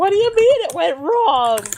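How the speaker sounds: very high, swooping, sing-song whine. Complaining about an anime character's voice, imitating him: whiny Jacuzzi Splot voice. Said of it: "he's just super whiny".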